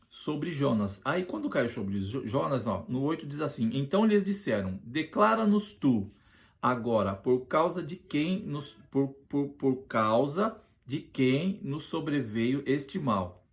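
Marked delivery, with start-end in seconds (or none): 3.7-13.5 louder, slow, pressing demand; urgent demand. Acted. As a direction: read it as sailors demanding an answer. Reading the sailors' demand.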